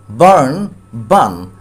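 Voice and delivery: first বার্ন long, second বার্ন clipped short; teacher contrasting the vowels in barn and bun; long then short vowel. Shown as a demonstration. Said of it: "long sound, short sound".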